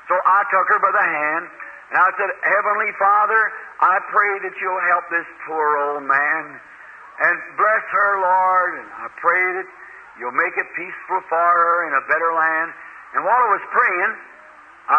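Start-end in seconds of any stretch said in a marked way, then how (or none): 2.4-12.7 slow gentle prayer. Retold or imitated. Preacher prays over dying woman.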